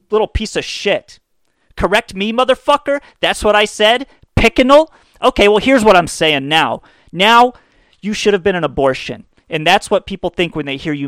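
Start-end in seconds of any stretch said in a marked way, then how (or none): 1.8-9.3 put-on higher, louder sneering kid; mock indignant kid. Kid bristling at being corrected, sneering kid voice. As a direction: snap back like an offended brat. Mocking angry reply.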